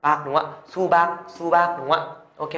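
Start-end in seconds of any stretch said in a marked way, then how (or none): 0.0-0.2 "bạc" closed on a final k; phụ âm cuối K. Shown as a demonstration. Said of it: "đứng ở cuối thì đọc là gì". 0.7-1.8 "Su bạc" sounded out as a model; đọc mẫu. Shown as a demonstration. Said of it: "Thế thì đọc là gì ạ".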